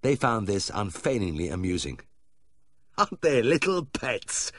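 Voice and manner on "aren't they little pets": high, slow, gushing pet-owner voice; doting owner gasping with laughter. Acted. Owner gushing to the vet over his dogs, high and doting. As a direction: coo over the little dogs between giggles. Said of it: "Mister Whithorn gasped between paroxysms".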